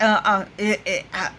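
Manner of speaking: reenacted speechless stammering; panicked stammer. Caller hearing "F B I" on the phone, panicked stammer. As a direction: stumble over broken little sounds, unable to form words. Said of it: "I could not make words. I was just making sounds".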